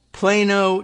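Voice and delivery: "Plano" with a long A, PLAY-no; correct local pronunciation. Shown as a demonstration. Confirming the Texas town's name, "Plano" pronounced PLAY-no. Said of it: "making sure that we knew about the pronunciation".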